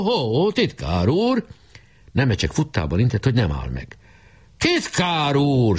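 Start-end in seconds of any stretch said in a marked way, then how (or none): 0.0-1.5 high commanding hail; calling out. A narrator's reading. Weiss hails the running secretary, calling out. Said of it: "rákiáltott". 4.6-5.8 high, slow drawn-out call; shrieking after. A narrator's reading. Weiss calls after the fleeing secretary, shrieking. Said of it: "süvöltött utána Weiss".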